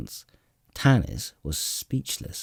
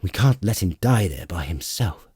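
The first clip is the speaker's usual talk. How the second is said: harsh; 4 dB louder than usual. Acted. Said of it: "Sturm said harshly".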